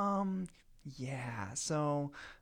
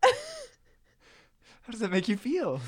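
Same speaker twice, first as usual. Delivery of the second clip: therapist voice; 5 semitones higher, much slower than usual. Pretend. Mock counselor question.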